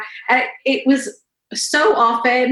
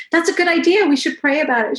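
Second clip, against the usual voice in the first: coaxing mother; 9 semitones higher, 3 dB louder, faster than usual. Retold or imitated. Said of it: "I was like".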